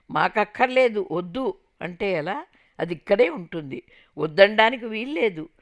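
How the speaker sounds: loud, firm declaration; loud insistence. Retold or imitated. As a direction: lay down the law loudly. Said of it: "గట్టిగా అరిచి మరీ చెప్పాడు".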